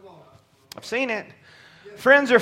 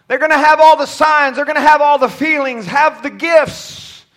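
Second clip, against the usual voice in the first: raised, rhythmic sermon list; preaching; 4 semitones higher, 6 dB louder than usual. Acted. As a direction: build the list from the pulpit, stretching the last item.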